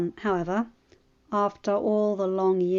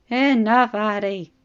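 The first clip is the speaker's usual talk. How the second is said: firm rebuke; 2 semitones higher, 7 dB louder, slower than usual. A narrator's reading. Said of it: "Oberyn said".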